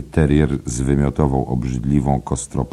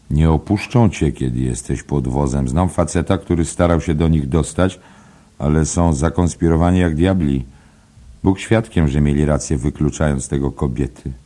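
a lightly raised, confiding pub gossip; gossiping barfly; 3 semitones higher, 4 dB louder than usual. Acted. Nosey Flynn gossiping to Byrne, lightly raised pub voice. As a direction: lean in and spread the rumour.

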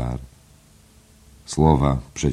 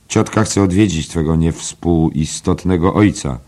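high, loud, gleeful reading out; reading aloud merrily; 5 semitones higher, 5 dB louder than usual. Acted. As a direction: read the telegram out with glee, mocking it. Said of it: "odczytując wesoło na głos".

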